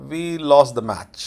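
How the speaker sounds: slow, falling mild letdown; slightly disappointed. Shown as a demonstration. Teacher modelling the English tone, slightly disappointed. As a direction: drag it slightly, as if let down. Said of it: "थोड़ा सा निराशाजनक style में".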